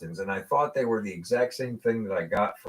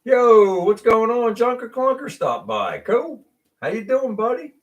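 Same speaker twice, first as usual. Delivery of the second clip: high, loud hype greeting; excited greeting; 13 semitones higher, 5 dB louder than usual. Real, not acted. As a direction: hype up a friend dropping in. Greeting a viewer in chat.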